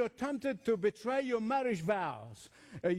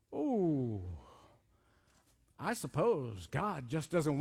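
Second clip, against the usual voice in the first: insinuate doubt as a sly tempter; lightly acted scornful pity; sowing doubt; 3 semitones lower than usual. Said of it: "He's bringing doubt".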